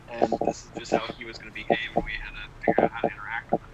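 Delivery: breaking up on the mic; audio cutting out. Real, not acted. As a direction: voice dropping out on a bad line. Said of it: "your audio keeps cutting out".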